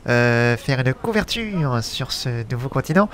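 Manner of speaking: lightly put-on radio columnist, unhurried; radio host voice. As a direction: speak like an old radio columnist presenting himself. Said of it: "je parle avec une voix de chroniqueur radio". (voix de chroniqueur radio légèrement jouée)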